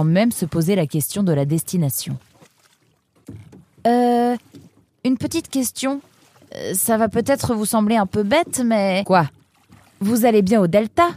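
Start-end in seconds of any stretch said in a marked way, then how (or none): 3.9-11.1 put-on high, timid young voice, hesitating; hesitant young Nemrod. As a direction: ask shyly, afraid of seeming silly.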